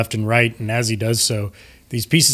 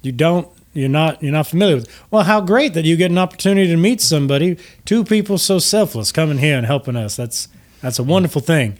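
genteel host gushing with gratitude; gracious Lucian Flametongue; 5 semitones higher than usual. Acted. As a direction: greet them with courtly, lilting flattery. Lucian meets the heroes.

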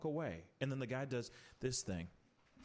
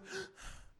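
dramatic gasp; 9 dB quieter than usual. Retold or imitated. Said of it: "every time it's like".

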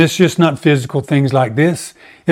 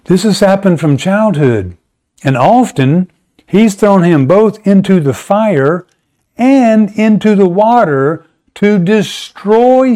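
higher, slow, pleading father; a father begging for his son, slowly and higher; desperate father; 5 semitones higher, slower than usual. Retold or imitated. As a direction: voice the father's plea, drawn out and rising. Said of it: "The man goes".

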